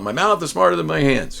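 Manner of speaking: mild mock chant; mock class yell. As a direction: imitate a class yelling back, held in. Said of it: "they all yell it".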